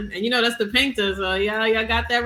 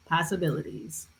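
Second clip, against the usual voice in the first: dramatic whisper; 6 semitones lower, 5 dB quieter than usual. Acted. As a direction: whisper it after a pause. Dramatic intro pause then whisper.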